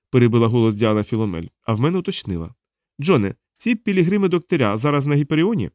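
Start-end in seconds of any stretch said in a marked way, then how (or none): 3.0-5.7 lightly voiced, higher-pitched questioner; interrogating woman. Diana questions captive John about the council, probing. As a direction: press the captive for an answer.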